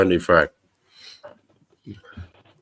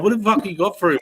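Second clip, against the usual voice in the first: much higher, incredulous demand; retold challenge; 11 semitones higher, faster than usual. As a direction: demand it, pitched way up.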